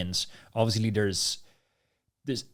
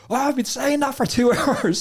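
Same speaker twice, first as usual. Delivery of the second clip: laughing at himself; 4 dB louder than usual. Retold or imitated. Laughing at his own mistake.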